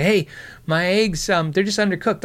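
sweetly polite complaint to the waitress; passive aggressive. Retold or imitated. Complaining to the waitress about runny eggs, passive aggressive. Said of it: "I was being so passive aggressive about it".

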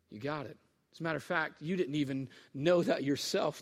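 low, soft voice of Jesus; softly voiced teacher to disciple; quiet affirmation. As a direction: confirm it gently, well below full voice. Jesus confirms Peter's answer.

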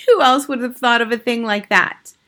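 high, loud admiring crowd; cried. A narrator's reading. Witch audience admiring her idea, crying out. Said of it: "cried the audience".

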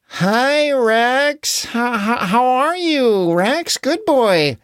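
stammering, hesitant hello to a big beast; nervously coaxing a huge dinosaur; nervous greeting. Acted. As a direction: stutter out the greeting, scared to upset him. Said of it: "everyone said nervously".

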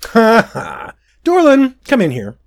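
high, loud gleeful call; a gleeful prince summoning his bodyguard. Acted. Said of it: "he called".

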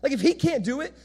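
high-pitched mock dismay, piling up reasons; dismayed bystanders. Commoners ask who can be saved, high-pitched dismay. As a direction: protest as a hopeless nobody. Bystanders acted protesting they are hopeless.

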